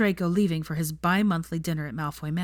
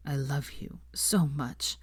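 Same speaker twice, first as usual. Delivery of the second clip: slow, hushed I love you; whispered confession; 3 semitones lower, 5 dB quieter, slower than usual. Acted. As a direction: breathe it out tenderly. Draco's quiet confession.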